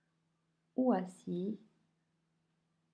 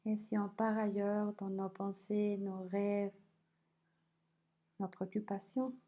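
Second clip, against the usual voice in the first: unhurried body scan voice, leaving space between phrases; guided meditation; 3 semitones lower than usual. Acted. Teacher guiding listeners through a body scan, calm guided meditation.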